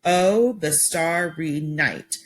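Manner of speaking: slow "the starry night", each beat set apart; syllable by syllable. Shown as a demonstration. Teacher counting syllables aloud for students, slowly. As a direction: clap out "starry" as two beats. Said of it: "and I could count that".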